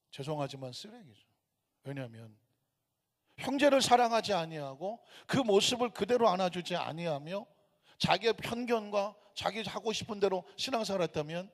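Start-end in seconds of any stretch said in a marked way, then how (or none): 3.4-11.5 emphatic, driving pulpit delivery; earnest preaching. Real, not acted. Preacher warning those who will not love their brothers, emphatic. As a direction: press each clause home like a preacher. Preacher rebukes at full force.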